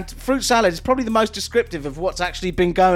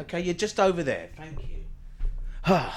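whispered aside; 8 dB quieter than usual. Real, not acted. Aside, voice drops away.

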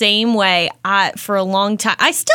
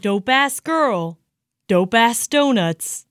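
slow, drawn-out teasing echo; mocking repeat; slower than usual. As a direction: savor his cringe line to tease him. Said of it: "mocking repeat".

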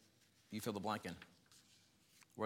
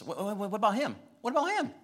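whiny mock complaint; 10 semitones higher, 3 dB louder than usual. Mimicking whiny human nature.

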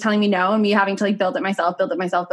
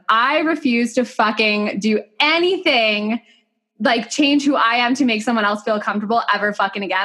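table-flip refusal. Retold or imitated. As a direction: put your foot down, drawing out the first words. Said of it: "table flip moment".

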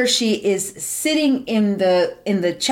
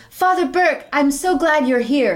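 hammed-up relief; 4 semitones higher than usual. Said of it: "she goes".

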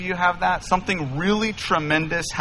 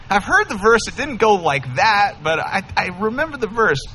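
mock nervous; 5 semitones higher than usual. Young James answering the armed father, mock nervous and higher. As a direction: squeak it out like a scared suitor. His own nervous reply retold.

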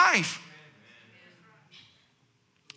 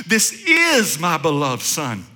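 much lower, slow and solemn divine voice; voice of God from heaven; 8 semitones lower, slower than usual. Acted. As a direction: boom it out slowly like God speaking from heaven. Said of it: "God's voice repeated".

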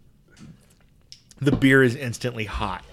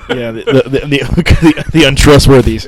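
laughing loudly through the words; words broken up by laughter; 2 semitones higher, 13 dB louder than usual. Real, not acted. Laughing through a joke about farts.

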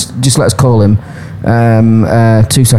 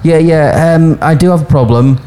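caller voice; 3 semitones higher than usual. Acted. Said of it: "shall I be the caller?".

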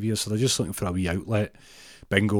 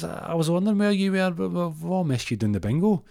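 put-on much higher old lady voice, a bit louder; 10 semitones higher, 4 dB louder than usual. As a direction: falsetto old woman teasing. Old lady voiced in comic story.

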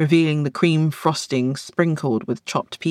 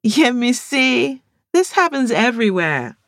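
eye-rolling; 9 semitones higher, 4 dB louder than usual. A narrator's reading. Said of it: "Amaka rolled her eyes".

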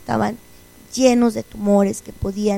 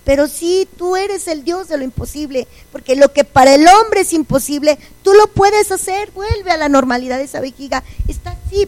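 higher, louder fervent pleading; fervent prayer; 5 semitones higher, 3 dB louder than usual. Retold or imitated. She prays to God for a cure, fervent raised prayer. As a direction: cry out to God, swelling with faith.

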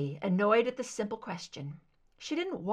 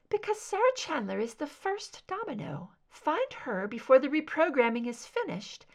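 raised, ominous soprano; cool soprano; 6 semitones higher than usual. Acted. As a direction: lift it, fading at the end.

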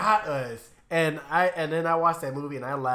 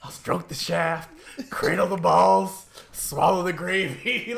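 slow, measured retold offer; drawn-out acted bargaining, phrase by phrase; pleading movie quote; 2 semitones higher, slower than usual. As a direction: list each item slowly, imitating the film character. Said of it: "He's like".

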